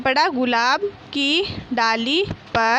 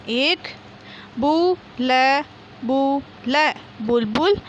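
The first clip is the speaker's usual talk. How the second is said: slow reading aloud; slower than usual. Shown as a demonstration. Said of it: "बोल बोल कर पढ़िए".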